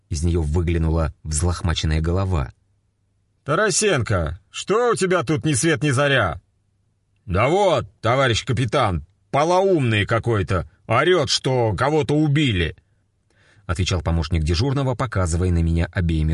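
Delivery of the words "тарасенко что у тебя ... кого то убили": police officers voiced. A narrator's reading. Captain and sergeant voiced.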